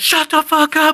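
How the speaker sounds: mock in-your-face bellow, very high, drawn-out, drill sergeant. Retelling drill sergeants yelling at him: imitating a drill sergeant yelling. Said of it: "they're yelling in my face".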